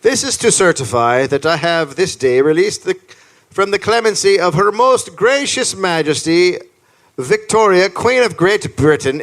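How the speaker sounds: formal proclamation, measured phrases; letter read aloud. Acted. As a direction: declaim an official document. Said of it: "this is the letter he read".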